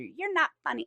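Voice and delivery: high snooty heckle; entitled customer. Retold or imitated. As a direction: sneer it like a rude heckler. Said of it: "she started with her".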